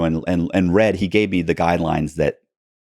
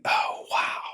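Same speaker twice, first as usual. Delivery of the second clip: stunned; 9 dB quieter than usual. Retold or imitated. Realizing phones are microphones.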